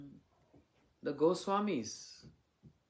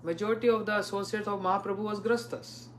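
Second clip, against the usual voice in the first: higher, louder mock of a smug excuse; mock smug devotee; 4 semitones higher, 4 dB louder than usual. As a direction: imitate a devotee making excuses, a bit louder. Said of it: "many devotees say".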